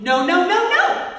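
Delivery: mock mad at the dog; scolding the dog. Shown as a demonstration. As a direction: shake your finger and bark no. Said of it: "be mad at the dog".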